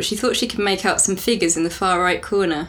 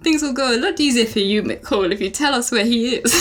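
Russian accent; 3 semitones higher than usual. Shown as a demonstration. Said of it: "It's better".

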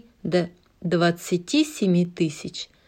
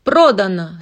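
auctioneer's sold; 7 dB louder than usual. Acted. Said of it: "стукнул молоточком аукционист".

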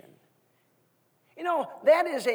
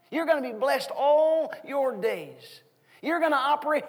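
fervent blessing; 4 semitones higher, 5 dB louder than usual. Retold or imitated. Declaring blessing over son.

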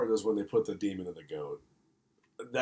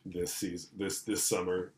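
horror trailer voice; 3 semitones lower, 4 dB quieter than usual. Acted. Movie trailer tagline parody.

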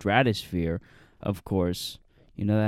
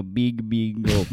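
drawn-out slow big gulp; slow mock company voice; much slower than usual. Friend imagines how the company names itself, slow and drawn out. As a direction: drag it out like a corporate mascot. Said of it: "I think they go".

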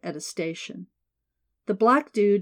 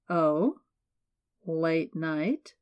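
low, suggestive hint in the voice; lightly sultry jab; much slower than usual. A narrator's reading. Stranger in elevator needling Sybil, mildly suggestive. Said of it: "low, sultry, suggestive".

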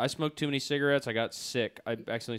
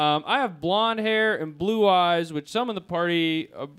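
put-on higher, louder cocky teen leader; Jed character voice; 7 semitones higher, 11 dB louder, slower than usual. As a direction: play it as a full-of-himself gang leader. Jed brags about himself.

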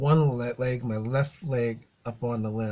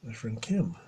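whisper; 6 dB quieter than usual. Real, not acted. Aside whisper about friend nearby.

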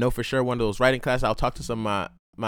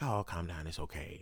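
mock soothing; 9 semitones lower, 15 dB quieter than usual. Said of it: "they're like".

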